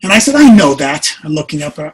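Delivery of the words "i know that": louder, mock-exasperated retort; retold exasperation. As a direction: act out a husband cutting off comfort. Acted quarrel with his wife.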